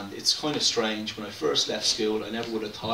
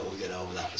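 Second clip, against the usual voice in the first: softer, lower rueful repeat; quiet afterthought; 3 semitones lower, 7 dB quieter, faster than usual. Real, not acted. Poet repeating it to himself, quiet and rueful. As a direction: say it again under your breath, half to yourself.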